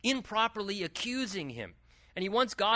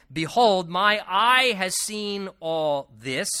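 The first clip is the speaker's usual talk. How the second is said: solemn scripture reading; 3 semitones higher, 8 dB louder, slower than usual. Acted. Preacher reads Job's words aloud.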